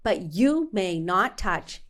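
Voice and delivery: loud on may, then slow and deliberate; firm loud warning. Retold or imitated. Patient warning the dentist, loud then slow. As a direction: lay down the law, word by word. Telling the dentist not to touch.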